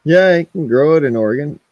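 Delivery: high mocking yeah; sarcastic. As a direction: scoff it out sarcastically. Sarcastic high quote vs flat retort.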